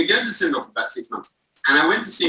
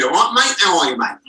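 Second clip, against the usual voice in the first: put-on Hackney accent; 4 dB louder than usual. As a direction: greet them like a Hackney local. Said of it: "they should all be".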